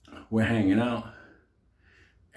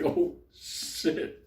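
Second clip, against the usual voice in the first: breathless whispered curse; whispered oh shit; 6 dB quieter than usual. Retold or imitated. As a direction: whisper it in shock. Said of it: "I was like".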